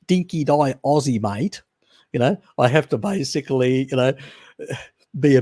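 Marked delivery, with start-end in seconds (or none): 0.1-1.6 lightly hammed-up Aussie twang; broad Australian accent. Explaining to his audience what he avoids, mock broad Australian. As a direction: lean into Aussie slang, lifting the last word. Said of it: "I have to express myself not in".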